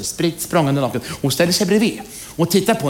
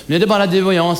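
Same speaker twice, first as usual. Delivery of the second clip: a bit challenging; 4 semitones higher, 4 dB louder, faster than usual. Acted. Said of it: "Fast lite utmanande sådär".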